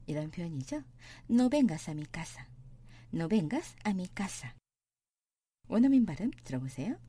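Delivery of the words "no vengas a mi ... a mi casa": very slow Spanish; slow model reading. Shown as a demonstration. Teacher reading slowly for students. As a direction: say each word slowly. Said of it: "teacher models slowly".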